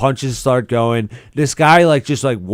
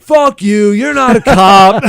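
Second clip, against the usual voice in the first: higher, louder taunting yell; retold jeer; 7 semitones higher, 6 dB louder, slower than usual. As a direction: jeer at the fake cop. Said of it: "my friends are just like".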